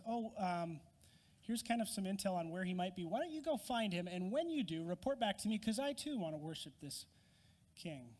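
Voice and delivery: a hint of a scheming king playing nice; sly. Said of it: "And very slyly".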